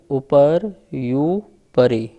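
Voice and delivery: drawn out, measured chanting; slow sutra recitation. Shown as a demonstration. Teacher repeating the sutra slowly for students. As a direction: intone each syllable deliberately. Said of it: "इस प्रकार से सूत्र का उच्चारण है".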